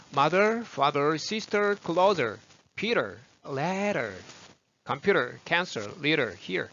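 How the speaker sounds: "Peter, ladder, leader" with the middle consonant tapped; flapped D. Shown as a demonstration. Teacher drilling word list, flapped "ladder" and "leader". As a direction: list "mother, father, sister" crisply, r-colored endings, flapped middles. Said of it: "D 발음이 흘렀죠".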